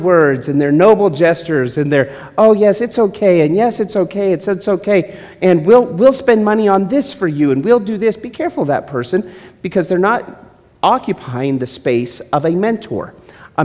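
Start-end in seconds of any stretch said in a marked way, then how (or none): 2.4-8.2 higher, soothing people-pleaser voice; mock the sweet-talking yes-man; preacher mimicking a flatterer who only placates, syrupy; placating flatterer. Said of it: "placate you or satiate you".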